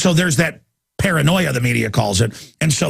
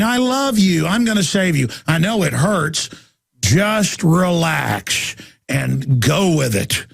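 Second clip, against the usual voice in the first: mock sweet talk; slower than usual. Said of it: "talking to it sweetly".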